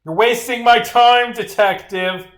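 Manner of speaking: high, loud, exasperated complaint; indignant rebuke. Acted. Witness tells detective off for wasting time, indignant.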